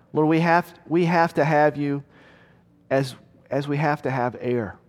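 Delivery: earnest, measured prayer voice; preacher leading the church in prayer; closing prayer. Acted. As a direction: pray it sincerely over the congregation.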